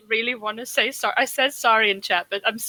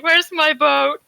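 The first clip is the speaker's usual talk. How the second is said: close to crying; 5 semitones higher, 4 dB louder, slower than usual. Acted. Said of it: "like, close to crying".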